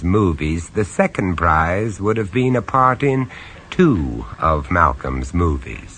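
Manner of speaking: low-key, wry first-person narration; lightly amused storyteller; story narration. A narrator's reading. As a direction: confide it to the listener.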